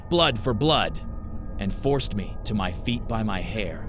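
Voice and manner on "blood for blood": high, loud scream of vengeance. A narrator's reading. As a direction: shriek it at the crowd. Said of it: "When Gracie screamed".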